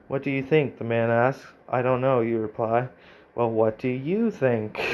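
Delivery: reading the story out, a touch brighter; steady storyteller read of the game text; story narration. Acted. Streamer reading the AI story aloud, narrating.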